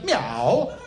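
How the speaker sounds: a plain spoken meow, a touch questioning; cat meow. Acted. Talking cat says meow. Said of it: "this chap hears".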